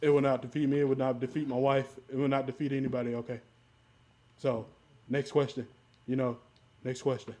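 lightly voiced defiant president; Donald Trump. Vowing the coronavirus will not defeat him, light Trump impression. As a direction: declare it firmly, lightly impersonating a politician at the podium. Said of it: "My Trump impression is great".

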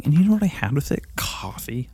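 fast whispered tease then the reveal; conspiratorial whisper. Acted. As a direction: lean in and whisper the secret.

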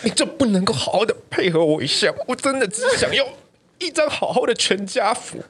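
high laughing, half-mock pleading; laughing plea. Retelling his plea to mom, laughing mock plea. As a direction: beg for the family photo through laughter.

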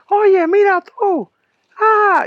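mock woozy shout; dazed call. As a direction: call out while still dizzy. Calling out to pornstar, dazed.

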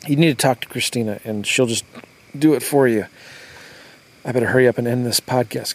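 hiccups breaking the words. Real, not acted. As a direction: push through hiccups. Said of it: "I got the hiccups real bad".

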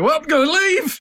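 high, loud exclaim; mock outburst. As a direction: blurt it out, hammed-up. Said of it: "standing up and going".

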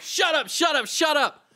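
high-pitched pretend outburst; mock frantic scolding. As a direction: shout them down in comic hysteria. Slapping back in acted squabble.

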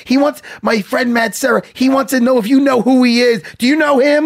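a hint of a whiny pushover; whiny little bitch. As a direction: ape a needy whiner. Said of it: "like a whiny little bitch".

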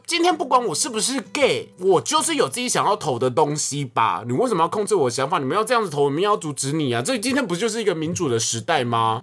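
heated retort. Retold or imitated. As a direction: fire back at your mother. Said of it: "我那时候火就已经起来". (气愤地反驳妈妈)

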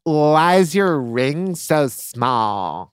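slow, drawn-out fake curiosity; mock nosy snob. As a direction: stretch each jab as if innocently prying. Mimicking rude newcomer's prying questions.

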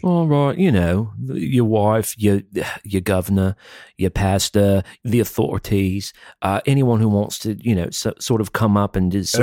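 playful fake British accent; mock British accent. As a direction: put on a British accent while insisting it's normal.

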